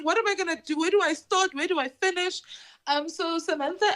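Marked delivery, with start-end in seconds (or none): 0.0-2.4 mock bewildered.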